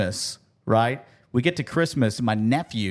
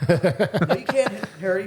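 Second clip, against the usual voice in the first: movie quote; 8 semitones higher than usual. Retold or imitated. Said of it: "see how many movie quotes".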